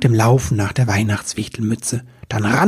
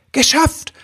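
triumphant. Acted. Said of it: "wollte der Wichtel schon sagen".

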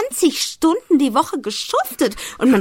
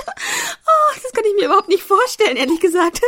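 dismayed; 10 semitones higher than usual. Acted. Horror at returning to work.

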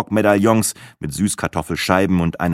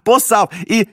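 silly Speckhut; 13 semitones higher, 5 dB louder, slower than usual. A narrator's reading. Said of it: "Speckhut noch ein".

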